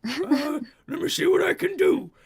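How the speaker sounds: high, loud barmaid; troll barmaid voice. Acted. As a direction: promise to look, bluntly. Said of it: "is just like".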